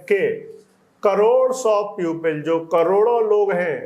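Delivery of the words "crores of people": slow dictation reading. Shown as a demonstration. Slow reading of the English text.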